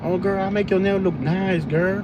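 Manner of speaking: put-on sweet-talking nail salon lady in a light Vietnamese accent; mock Vietnamese accent. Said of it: "they speak Vietnamese accent".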